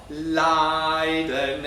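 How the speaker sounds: Leiden with a harsh, abrasive first vowel. Shown as a demonstration. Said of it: "a really sort of abrasive vowel".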